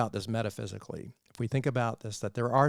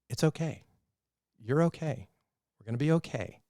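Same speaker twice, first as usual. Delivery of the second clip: gently reassuring, slightly lifted, with pauses between phrases; calm reassurance; 3 semitones higher than usual. Acted. Jesus calming an emotional wreck, gently reassuring. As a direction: soothe someone who is upset. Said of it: "he's emotionally intelligent, and he's like".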